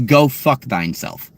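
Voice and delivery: "go fuck thine self" said slow and prim, with mock-courtly "thine"; fake-genteel insult, slowly; mock politeness. Shown as a demonstration. Streamer insulting chat with mock-polite slowness. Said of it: "On the highest levels of the rungs of politeness".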